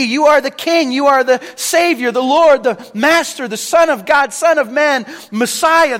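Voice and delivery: loud, high declaration of faith; fervent confession. Retold or imitated. Beggar proclaiming who Jesus is, loud and fervent.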